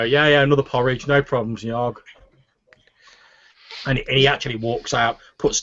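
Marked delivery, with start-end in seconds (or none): 0.0-2.0 slightly raised cook's reply; Finnan. Acted. Half-elf cook acknowledging the barkeep's order, lightly voiced. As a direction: answer back readily from the kitchen. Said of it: "You hear Finnan go".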